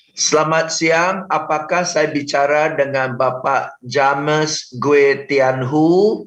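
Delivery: slow, stiff, limp caller greeting; lemas dan kaku. Shown as a demonstration. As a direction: read it like a bored script. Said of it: "Itu kalimat sudah mengundang ditolak". (sapaan telemarketing yang lemas dan kaku)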